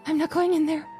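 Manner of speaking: high, panicked refusal; frightened, pleading voice; scared horror game streamer. Acted. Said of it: "refuses to enter torture room".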